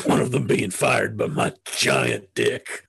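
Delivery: Alex Jones impression. Shown as a demonstration. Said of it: "Jerry Seinfeld as Alex Jones".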